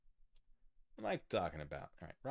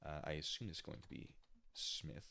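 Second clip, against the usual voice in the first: ordinary delivery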